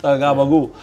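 goblin voice. Acted. Echoing the goblin voice.

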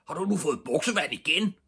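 high, rapid, outraged question; shouting father. A narrator's reading. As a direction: fire the question off in a high yell. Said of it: "begyndte lige med det samme at råbe". (råbende far, højt og hurtigt)

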